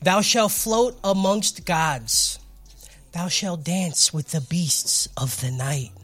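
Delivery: mock King James preacher; hammed-up solemn sermon voice; booming biblical narration. Mock sermon for four twenty.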